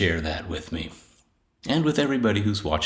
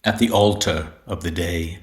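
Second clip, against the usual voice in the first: measured poetry reading with pauses between lines; poem recitation; 3 dB louder than usual. Acted. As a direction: recite it deliberately, phrase by phrase. Reads own poem aloud.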